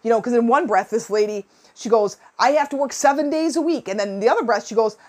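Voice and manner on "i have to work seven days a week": imitated coworker's complaint, pitched higher; mock complaining. Retelling what this lady says in one breath, mock complaining. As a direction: imitate her griping in a raised pitch. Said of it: "complaining out of both sides of her face".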